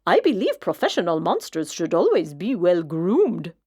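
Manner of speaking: smooth, prim and silky; a vain monster lecturing on grooming; groomed monster explaining its nail polish, silky. A narrator's reading. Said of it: "he said in a high, silky voice".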